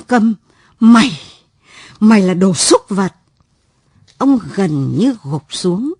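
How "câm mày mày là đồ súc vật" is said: angry accusation. A narrator's reading. Father accuses son of crime.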